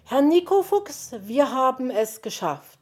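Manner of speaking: high, loud, triumphant call; excited triumph. A narrator's reading. Magpie telling the fox they made it, excited. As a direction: announce success with a bright lift in pitch and volume. Magpie announces their success.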